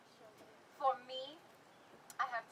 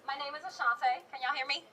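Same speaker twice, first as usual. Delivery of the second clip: raised voice; 2 semitones higher than usual. Real, not acted. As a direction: speak up for the crowd. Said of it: "Oh, I have to yell".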